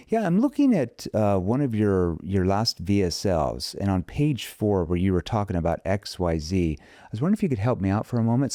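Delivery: casual, friendly marketing call; easygoing phone pitch; familiar tone opener. Shown as a demonstration. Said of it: "I might say".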